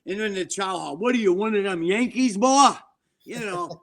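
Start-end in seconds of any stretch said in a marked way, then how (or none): 1.0-2.7 taunting a Northern inmate in a mock Southern accent. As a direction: put on a jeering Southern guard's voice. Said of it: "they all talk like this".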